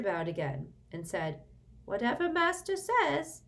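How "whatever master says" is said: high, loud fawning elf; bow and scrape with it; servile house-elf. A narrator's reading. House-elf feigns obedience to Sirius, high and fawning.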